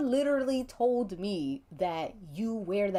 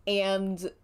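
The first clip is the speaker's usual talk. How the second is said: ordinary delivery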